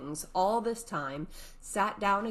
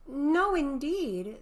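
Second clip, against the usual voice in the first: eager Alice; 10 semitones higher, 5 dB louder, much slower than usual. Acted.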